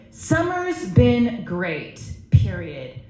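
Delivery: slow, drawn-out words; deadpan retold reply. Reading his brief reply to the audience, slow deadpan. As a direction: spell out his curt text word by word.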